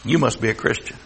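mock contempt, pitched low; imitated disdain. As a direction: say it under your voice like a dirty word. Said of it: "they say it like it's a dirty word".

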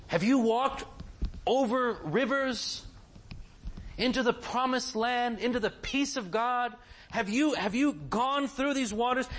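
fervent preacher's appeal; rising exhortation. Acted. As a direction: press the congregation with each question.

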